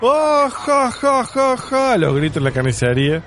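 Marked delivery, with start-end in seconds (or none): 0.0-2.0 high hammed-up ja ja laugh; mock cackle.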